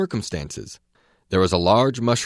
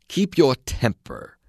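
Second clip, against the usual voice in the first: higher, slow, deliberate rebuke; slow caterpillar scolding; 5 semitones higher, slower than usual. Acted. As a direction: calmly chide her.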